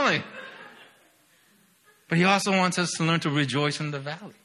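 usual speaking voice

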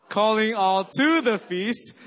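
"to" punched loud and high, slow phrase; stress on TO. Shown as a demonstration. Pastor leading church vision chant, stress on "to". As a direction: hit the word "to". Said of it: "you emphasize every syllable".

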